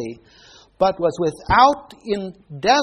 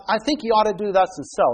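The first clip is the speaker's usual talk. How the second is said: gentle suggestion; faster than usual. Shown as a demonstration. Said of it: "That's very gentle".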